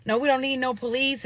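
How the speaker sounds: mock cocky, dismissive retort; smart-ass mouth. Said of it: "he got a smart ass mouth".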